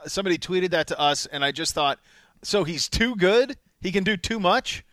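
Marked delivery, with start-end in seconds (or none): 2.4-4.8 slow, high incredulous repeat of their logic; mock disbelief. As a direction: drag it out like it's absurd. Reacting to the Panthers' quote.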